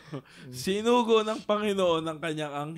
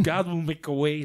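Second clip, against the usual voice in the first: charismatic preacher; 3 dB louder than usual. Pretend. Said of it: "Natatawa lang ako sa way mo".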